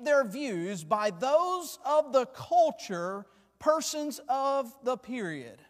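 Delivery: slow, deliberate read-aloud from the pulpit; measured, very slow preacher's recitation; formal quote reading. Real, not acted. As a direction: read it out slowly, weighing each phrase. Reads a Spurgeon quote aloud.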